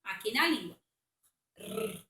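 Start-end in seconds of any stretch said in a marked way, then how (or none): 1.5-2.0 soft rolled R on the tip of the tongue; soft tongue-tip trill. Shown as a demonstration. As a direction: quietly roll the R with the tongue. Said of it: "ele fica com som tremido".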